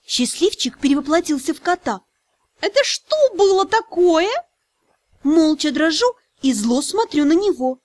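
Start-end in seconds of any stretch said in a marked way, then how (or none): 2.6-4.3 higher question with a laugh. Acted. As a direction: ask it half laughing. Dragon spirit laughing question.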